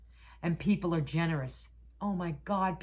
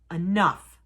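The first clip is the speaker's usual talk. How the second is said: the second enough, louder and final; louder firm enough; 7 dB louder than usual. Retold or imitated. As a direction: repeat enough louder like a last word. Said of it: "she said".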